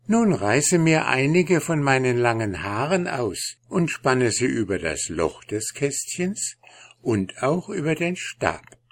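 high, gentle fairy queen. Acted. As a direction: speak as a kind fairy queen.

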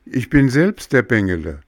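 high, loud, stress on selbst; eager cry. A narrator's reading. Pinocchio telling the pigeon who he is, eager cry. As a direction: announce yourself eagerly. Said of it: "rief der Hampelmann".

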